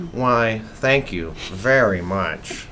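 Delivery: slow, drawn-out mock Eddie Izzard thank you; lightly voiced Eddie Izzard, savoring each word; Eddie Izzard impression. Thanking the listener in his Eddie Izzard voice, slow and drawn out. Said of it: "really great Eddie Izzard impression".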